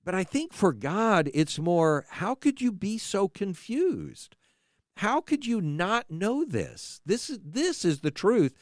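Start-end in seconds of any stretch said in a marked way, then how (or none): 2.1-8.5 pleading. Shown as a demonstration. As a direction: beg them to understand, gently. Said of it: "more of a pleading kind of voice".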